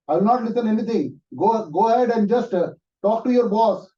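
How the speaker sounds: high, loud, eager voice on the phone; pushy caller yelling down a phone line; excited caller. Acted. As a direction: call out to a friend with big news, high and loud. Caller insists he must come.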